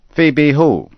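genuinely baffled; puzzled farmer. Acted. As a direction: Farmer Dodge not following Henry. Dodge puzzled.

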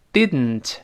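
"didn't" with the d released through the nose; nasal plosion. Shown as a demonstration. Teacher models for students to repeat, "didn't" with nasal release. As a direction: hold the tongue up on d in "didn't", air out the nose. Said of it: "鼻子出气儿".

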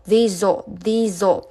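"These all" as thee-zo; linked pronunciation. Shown as a demonstration. Teacher showing z joining o, "These all" as thee-zo. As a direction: carry the z of "These" onto "all". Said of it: "Z和O连读成zo".

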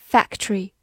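"factory" said as two syllables, fac-tree; dropped O. Shown as a demonstration. Teacher repeats the shortened factory for learners, dropped O. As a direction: skip the O in "factory", blending T and R into "ch". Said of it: "T和R就构成了ch这个音".

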